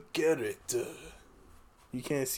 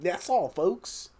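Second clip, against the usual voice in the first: cartoon sign-off impression; 2 semitones higher, much slower than usual. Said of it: "voice acting intro".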